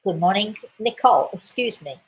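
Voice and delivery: speaking while choking. Real, not acted. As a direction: voice catching on a choke. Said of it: "Sorry, I'm choking here".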